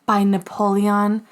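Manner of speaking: slow, drawn-out name; odd dramatic delivery. Pretend. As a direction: say it like a grand announcement. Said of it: "I don't know why I said it like that".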